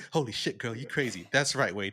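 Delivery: loud ranting comic villain read; loud quote reading. Retold or imitated. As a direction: rant it out like a trash-talking hero. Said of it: "I have it here somewhere".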